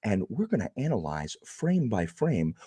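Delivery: a hint of a pompous know-it-all lecturing the viewers; snooty YouTube commenter. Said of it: "That's my impression of a YouTube commenter".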